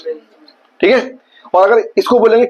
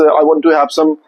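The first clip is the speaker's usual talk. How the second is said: slow English demo; 5 semitones lower, slower than usual. Retold or imitated. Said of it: "बोल सकते हो कि".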